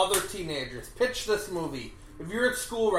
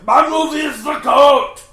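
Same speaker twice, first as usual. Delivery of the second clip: goat voice; 7 semitones higher, 12 dB louder than usual. Acted. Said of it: "doing an impression of a goat".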